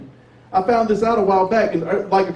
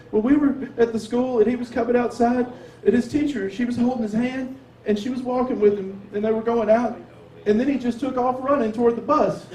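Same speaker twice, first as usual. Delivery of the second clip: higher-pitched, mock-tearful retelling; lightly acted maternal distress; imitating sobbing mom; 5 semitones higher than usual. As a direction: play an upset mother recounting events. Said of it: "my mom is sobbing".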